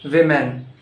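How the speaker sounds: "women" said with "wi" as first syllable; corrected WOMEN. Shown as a demonstration. Teacher correcting learners, "women" said as WIM-en. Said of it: "it's not woman".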